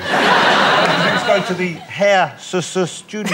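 stumbling through a word while laughing; cracking up mid-word. Real, not acted. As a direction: giggle and trip over the words. Stumbling over hair studio.

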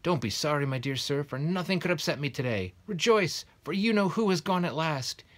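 put-on high, loud, squeaky old man, overjoyed. A narrator's reading. Tiny old man greets Mr Dursley, high squeaky and loud. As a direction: squeak it out with giddy delight. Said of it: "in a squeaky voice".

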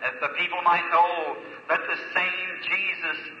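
earnest pulpit prayer, swelling and easing; preacher's heartfelt prayer over the meeting; fervent prayer. Acted. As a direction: plead with God for the audience. Preacher leads the congregation in prayer.

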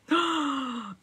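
sharp shocked gasp; dramatic gasp. Real, not acted. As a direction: gasp in mock horror. Reacting to viewer losing voice.

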